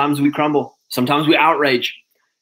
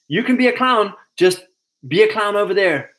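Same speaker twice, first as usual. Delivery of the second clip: higher, breezy dismissive tone; mock libertarian shrug; 6 semitones higher than usual. Mocking the libertarian line, breezy and higher. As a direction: wave it off lightly. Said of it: "the libertarian psyop is like".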